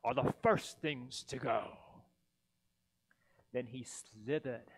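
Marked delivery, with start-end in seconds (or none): 0.0-1.8 grinchy sneer. Acted. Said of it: "he grinched".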